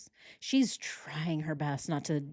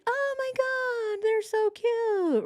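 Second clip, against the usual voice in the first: much higher, slow, sugary mock cooing over the photos; Tammy forcing fake delight, much higher and slow; fake gushing; much slower than usual. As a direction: gush falsely sweet, drawn out, way up high. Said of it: "she's like".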